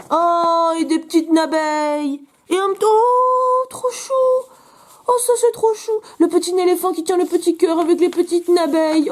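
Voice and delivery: gaga, très aigu et étiré; attendrissement. Real, not acted. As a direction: fonds devant ces petites bêtes dessinées. S'attendrit devant éléphant et abeilles. (attendrie, voix toute perchée)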